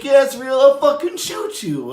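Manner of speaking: hammed-up gunman shouting a threat; mock threat. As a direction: bark it like the armed robber. Robber threatening in retold holdup.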